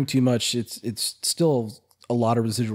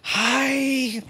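squeaky greeting; 13 semitones higher than usual. Pretend. Greeting in funny voice.

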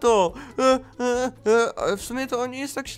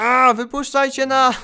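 mock yell for help; 3 semitones higher, 5 dB louder, slower than usual. Tied up, demanding release.

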